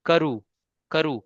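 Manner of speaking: karu ending cleanly on oo; short karu with an open final vowel; no N sound. Shown as a demonstration. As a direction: say karu with no n closing it. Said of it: "Say it without na".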